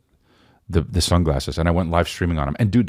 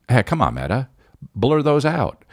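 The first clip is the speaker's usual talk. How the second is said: pleading, much higher on the last words; mock pleading; 8 semitones higher than usual. Comic begging the Meta glasses to blur the dildo. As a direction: whine at the glasses to hide the embarrassing stuff. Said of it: "So I'm just like".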